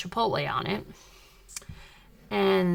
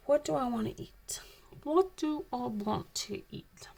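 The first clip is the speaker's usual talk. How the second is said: mock whisper to herself; 3 semitones higher, 6 dB quieter than usual. Pondering the food court choice.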